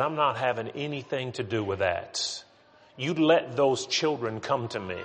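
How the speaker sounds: firm, stiff-jawed rebuke; stern. Acted. Jesus rebuking the disciples who stopped children, stern. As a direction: lay down the law with restrained indignation. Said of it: "I hear a much sterner, a stiffer jawed".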